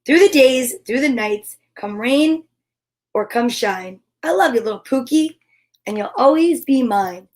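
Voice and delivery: gentle rhyming read-aloud; reading to children. Acted. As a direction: lilt the rhyme for a child.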